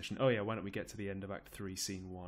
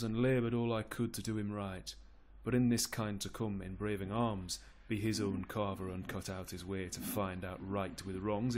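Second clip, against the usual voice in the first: lightly acted noble rebuke; stern Duke of York. York scolds the rebel lords, sternly.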